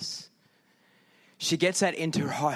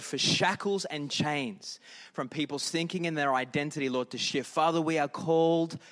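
prayer. Acted. Pastor praying over the congregation, hushed prayer.

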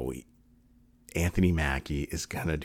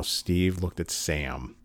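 slowing, halting, real emotion creeping in; getting choked up; much slower than usual. Real, not acted. Fan describing Steve and Sam's friendship, choked up. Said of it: "I'm starting to get choked up".

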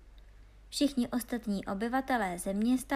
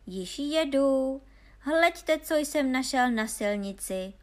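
loud, higher holler, opening drawn out; excited call down the road; calling after them; 4 semitones higher, 6 dB louder, slower than usual. A narrator's reading. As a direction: shout ahead to show off a find. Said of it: "volal za nimi hloupý Honza".

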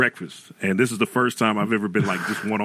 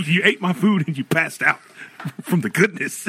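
laughing through the quote; 6 semitones higher than usual. Retold or imitated. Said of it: "he said".

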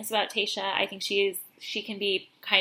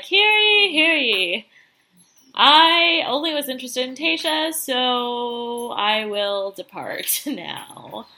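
town crier; much slower than usual. Retold or imitated. Announcing departure to everyone.

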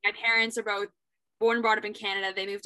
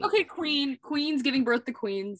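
high, excited praise; hyping up a friend's mom; hype; 4 semitones higher than usual. Real, not acted. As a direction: cheer her on.

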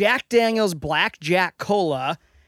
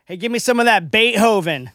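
loud, hammed-up American accent; super American accent; 3 semitones higher, 9 dB louder than usual. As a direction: put on an exaggerated American twang. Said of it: "trying to sound, like, super American".

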